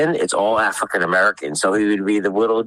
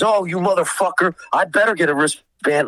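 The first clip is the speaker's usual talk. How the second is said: raised-pitch mock outrage; retold angry demand; 8 semitones higher than usual. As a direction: imitate an irate, entitled demand.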